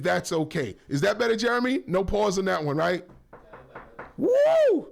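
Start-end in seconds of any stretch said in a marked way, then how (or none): 4.2-4.9 excited whoop. Real, not acted. Host excited after risky joke.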